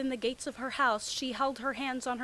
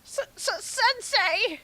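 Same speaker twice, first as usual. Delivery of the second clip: high, stuttering startled cry; shocked stammer; 11 semitones higher, 8 dB louder, slower than usual. Acted. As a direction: stammer in shock at your teacher.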